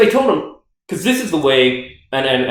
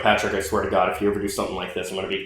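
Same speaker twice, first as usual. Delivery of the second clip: mock threat; 6 semitones lower, 7 dB quieter, faster than usual. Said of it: "a quick message where I was like".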